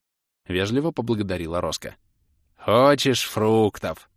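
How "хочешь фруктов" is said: slow, drawn-out generous offer. Acted. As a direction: hold out the fruit slowly and kindly. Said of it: "щедро предложил Орбит".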